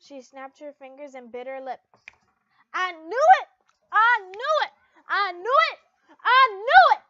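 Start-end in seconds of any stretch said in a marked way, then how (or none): 2.7-7.0 loud, high, repeated excited squeals; giddy squeal. Acted. Levy squealing to Lucy about her love life. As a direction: burst out triumphant, louder each time.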